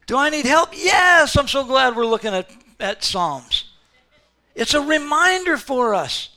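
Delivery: normal talking voice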